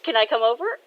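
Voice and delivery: eager daughter. Acted. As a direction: ask eagerly to join in. Eager daughter asking to join.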